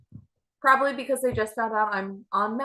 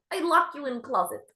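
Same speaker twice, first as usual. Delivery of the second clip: put-on Ukrainian accent; 5 semitones higher than usual. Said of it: "she has an accent like this".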